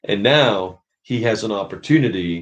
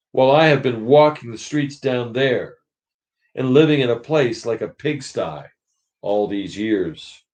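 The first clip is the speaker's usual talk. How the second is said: aggrieved big ghost; 3 semitones higher than usual. Acted. Big ghost resents the murderer in heaven, bitterly. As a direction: grumble about his injustice. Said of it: "said the ghost".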